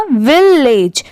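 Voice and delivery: विलेज as "vil" plus "lej", both parts clear; joined syllables. Shown as a demonstration. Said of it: "दोनों मिला देंगे तो". (विलेज, "विल" और "लेज" जोड़कर)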